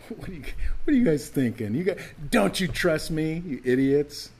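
mock outrage at foolish kids; mock scolding. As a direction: play the impatient teacher scolding dim pupils. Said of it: "He doesn't laugh at them".

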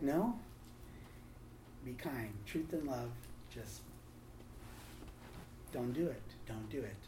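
hushed, measured counsel; calming restraint. Retold or imitated. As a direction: gently talk someone down from lashing out. The Lord restrains him, retold.

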